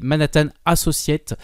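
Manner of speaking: company name in a light British accent; a mild British English accent on a French speaker. Shown as a demonstration. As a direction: say Manhattan Associates the British way, lightly. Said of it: "excusez mon accent british".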